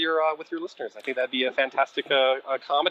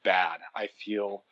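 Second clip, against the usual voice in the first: slow and a bit lower, hamming up the gloom; mock sorrowful; 4 semitones lower, slower than usual. Guest to hosts, acting out how fans should feel, mock sorrowful. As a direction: drag out each feeling like a tragic fan. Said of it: "so to go".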